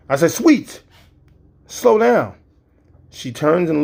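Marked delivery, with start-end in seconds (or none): 0.3-2.4 much higher, loud shout; panicked yell. Retold or imitated. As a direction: scream at her to slow down. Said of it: "you cannot yell at a driver".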